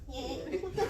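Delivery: ordinary talk, nothing marked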